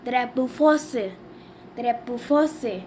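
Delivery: "drapeau français" said the French way, ending on a falling "fran-SAY"; careful teacher's "drapeau français"; French pronunciation. Shown as a demonstration. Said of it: "We say French flag in French".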